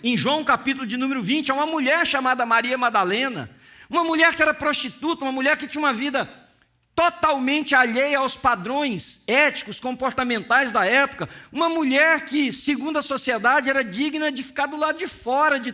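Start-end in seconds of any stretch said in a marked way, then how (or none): none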